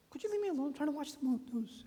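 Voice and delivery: high, exasperated brush-off; high-pitched mock-exasperated father; irritated brush-off. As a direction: shoo the kid away, fed up. Annoyed father brushing off child.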